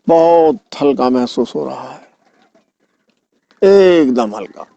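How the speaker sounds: unhurried yoga nidra guidance; guided relaxation. Acted. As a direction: coax the body into lightness, stretching each emphasized word.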